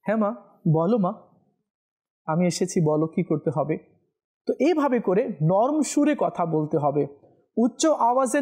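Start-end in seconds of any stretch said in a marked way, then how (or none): 0.1-3.8 gently, a little lower, an obedient son; soft tone. Shown as a demonstration. Preacher demonstrating a son's soft reply to mother, gentle. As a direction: speak softly and respectfully to mother. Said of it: "নরম সুরে বলবে".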